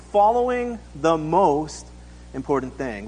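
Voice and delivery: "most" drawn out slowly, then a pause; stress on "most". Shown as a demonstration. Preacher pointing out a word in the notes, "most" stressed and lengthened. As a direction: stretch the word "most" and stop briefly before going on. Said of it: "What do you notice about that word most?".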